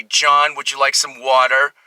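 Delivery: attempted Philadelphia accent; Philly accent. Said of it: "if I can do a Philly accent".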